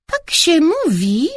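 grandma forcing the words out; said through clenched teeth. A narrator's reading. Grandma correcting the family, said through clenched teeth. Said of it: "wycedziła babcia Marysia".

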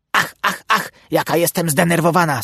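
fretful duck whining; complaining. A narrator's reading. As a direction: moan to your husband about your nerves. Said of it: "skarżyła się Kacperkowi".

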